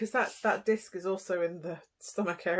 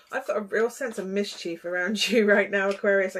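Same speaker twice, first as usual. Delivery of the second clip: giggly; 4 dB louder than usual. Real, not acted. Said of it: "I kinda wanna giggle".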